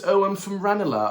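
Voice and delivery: put-on a light posh south Dublin accent, nose in the air; lightly sending up a posh Ranelagh Irish accent; mock posh Irish accent. Mocking Dublin elitists bragging about Ranelagh, light posh Irish accent. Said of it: "these elitists will say".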